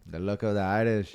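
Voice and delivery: bad attempt at an Irish accent; half-hearted Irish brogue. Shown as a demonstration. Friend obeys the request to say it, bad Irish accent. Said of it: "in an Irish accent".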